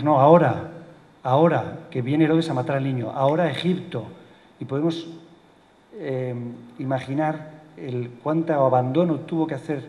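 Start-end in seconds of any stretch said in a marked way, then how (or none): 0.0-4.0 loud, insistent command to leave now; urgent order. Acted. The angel urging Joseph to flee now, loud and insistent. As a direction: hurry them out the door, no arguing. Angel urges flight to Egypt.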